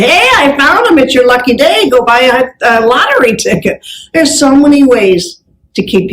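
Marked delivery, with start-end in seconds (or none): 0.0-3.8 1 cheerful clerk. Retold or imitated. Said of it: "She could have said".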